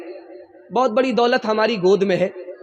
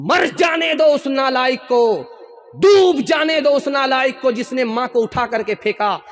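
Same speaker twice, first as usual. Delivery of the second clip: raised, furious retelling of a curse; angry shout; 2 semitones higher than usual. Retold or imitated. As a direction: bellow the curse at the worthless son. Disguised son curses himself to mother.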